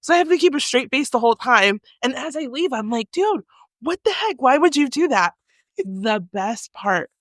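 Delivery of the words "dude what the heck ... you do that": high-pitched, exasperated retelling; put-on high indignation; mock indignant. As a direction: protest in playful disbelief. Acts out scolding her prankster friend.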